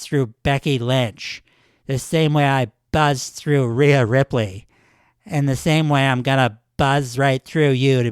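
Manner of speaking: loud snarling trash talk that eases into a steady sneer; mock angry shout. Recapping Nia Jax taunting Lyra, a loud mock heel rant. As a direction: bark it out like a wrestler cutting a promo, then settle.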